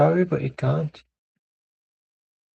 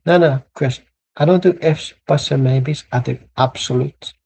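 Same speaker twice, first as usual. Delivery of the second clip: emphatic pundit; 5 dB louder than usual. Acted. Mock pundit declaration.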